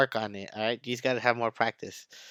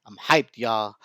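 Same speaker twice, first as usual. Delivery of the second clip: real hype; 4 semitones lower than usual. Real, not acted. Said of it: "I'm sorry if I'm yelling".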